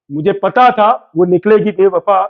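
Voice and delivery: playful couplet line, repeated with a hint of suspense; shayari line, repeated. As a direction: hold the line back before the punchline. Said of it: "शायरी सुना दे क्या?".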